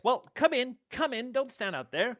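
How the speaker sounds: lightly voiced eager host; welcoming host. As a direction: usher them in toward the fire. Dwarf NPC greeting at door.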